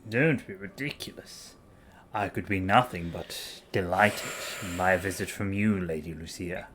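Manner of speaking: put-on posh boy voice. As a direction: play a smooth aristocratic charmer. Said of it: "posh boy voice for Ludwig".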